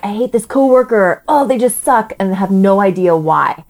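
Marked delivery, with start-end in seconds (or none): 0.0-2.1 grumbling adult. Retold or imitated. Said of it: "forty years old being like".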